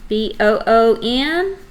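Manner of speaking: slow, each letter spaced apart; letters spelt out for children; spelling it out. Shown as a demonstration. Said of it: "spelled just like it sounds".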